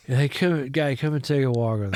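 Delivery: imitating a tipsy, slurred invitation; mock tipsy mumble, words run together; drunken slur. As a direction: slur it like a few tequilas in. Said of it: "he's got the greatest, like, slur".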